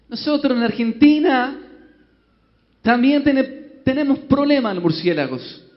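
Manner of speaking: put-on high Argentine-accented Spanish. Argentine bishop Batista addressing the bishops, high Argentine accent. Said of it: "Monseñor Batista, háblenos".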